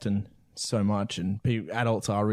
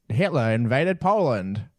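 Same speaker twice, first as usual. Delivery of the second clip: newsreel announcer; 5 semitones higher than usual. Pretend. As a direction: read it like a wartime newsreel. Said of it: "enjoying your voice, like, acting today".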